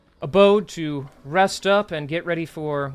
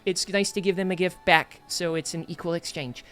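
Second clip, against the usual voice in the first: put-on little boy voice. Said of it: "a little voice".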